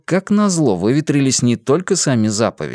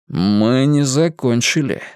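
coldly; slower than usual. Acted. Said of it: "вдруг холодно сказал он".

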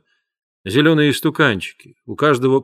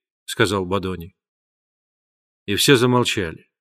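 ordinary delivery, nothing marked

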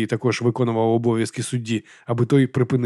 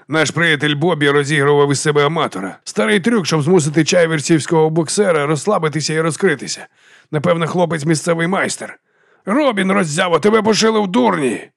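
raised, higher-pitched outburst; worked up, pitch climbing; agitated exclaiming; 5 semitones higher than usual. Acted. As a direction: exclaim it, building to a scolding call. Spectator exposes trick, berates boxer.

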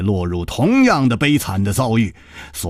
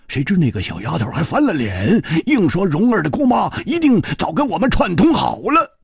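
higher, lively storyteller's voice for the blunt hero; Hu Tiehua's voice; 5 semitones higher than usual. Acted. Hu Tiehua telling his friend about their capture, lively and higher. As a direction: retell the ordeal in a hearty, aggrieved rush.

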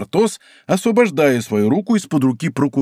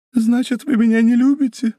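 a touch of sad, higher woman's voice; slow and sad; 10 semitones higher than usual. A narrator's reading. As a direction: say it slowly, mildly hurt. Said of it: "проговорила медленно и грустно". (медленно и грустно, слегка выше)

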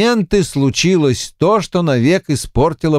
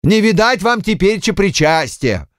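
higher-pitched feigned dismay; mock horror; 7 semitones higher than usual. A narrator's reading. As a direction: wail in pretend horror. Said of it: "в притворном ужасе закричал Куженков". (в притворном ужасе, повыше)

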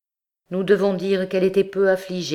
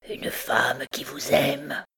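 slow, effortful admission; slower than usual. A narrator's reading. Hunchback reluctantly tells captain of the woman, with effort. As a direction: force the words out slowly. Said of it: "Il ajouta avec effort".

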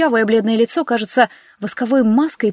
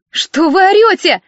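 much higher, louder, slow exclamation; exclaiming; 8 semitones higher, 5 dB louder, slower than usual. A narrator's reading. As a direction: snap back at the shrieking woman. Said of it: "воскликнула Алина". (восклицает в ответ на крик)

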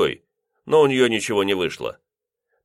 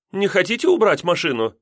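much higher landlady voice; pointed request; 10 semitones higher than usual. A narrator's reading. Landlady asking lodger to move his car, high. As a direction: ask pointedly.

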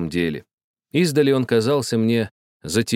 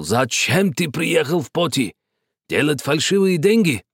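put-on suspicious old man; 7 semitones higher than usual. A narrator's reading. Vaso angrily interrogating.

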